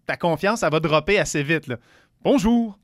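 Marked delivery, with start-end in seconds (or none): 2.2-2.8 confident hello. Shown as a demonstration. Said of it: "si tu fais juste bonjour".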